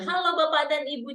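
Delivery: an upbeat emcee greeting; energetic MC hello. Shown as a demonstration. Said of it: "energinya dia lebih".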